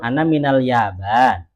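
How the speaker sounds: slow "Ana minal Yaban", closed on a vowelless n; sukun ending. Shown as a demonstration. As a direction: end "Yaban" on a bare n, no final vowel. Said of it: "Kalau ngobrol".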